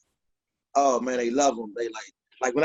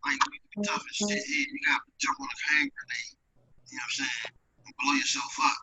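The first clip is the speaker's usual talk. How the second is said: faint, broken-up voice over a bad mic; morning announcements sound; 3 semitones lower, 4 dB quieter, faster than usual. Real, not acted. Comic talking through a failing mic, morning announcements sound. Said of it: "like, the morning announcements right now".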